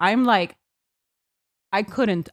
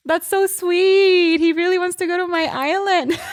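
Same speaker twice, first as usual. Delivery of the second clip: gushing; 9 semitones higher, 3 dB louder than usual. Retold or imitated. Bride retelling her reaction to his crying, gushing. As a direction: coo it high and stretched out.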